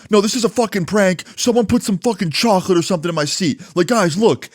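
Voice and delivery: high, insistent mock pleading; indignant protest. Prank victim defending himself to class, indignant protest.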